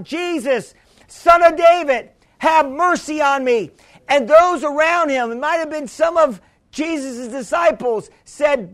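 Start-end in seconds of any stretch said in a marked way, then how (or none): 0.0-3.7 mild imitated plea, close to usual voice; retold crying out. Blind beggar first appeals to Jesus, a mildly voiced cry. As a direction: call out for mercy, held back in volume. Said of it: "started doing was crying out".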